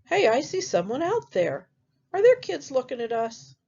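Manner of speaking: a hint of high pig voice; first little pig. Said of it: "that first pig says".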